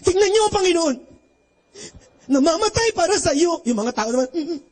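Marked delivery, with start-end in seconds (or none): 0.0-3.6 passion play announcer. Retold or imitated. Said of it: "sabi nung announcer". 4.4-4.6 mock weeping. Crowd crying at passion play.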